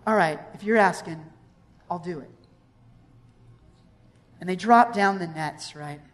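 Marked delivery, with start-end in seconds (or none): 0.1-2.3 soft, lower, resigned concession; reluctant agreement. Acted. Peter giving in to Jesus's request, reluctant. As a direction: give in quietly, voice sinking.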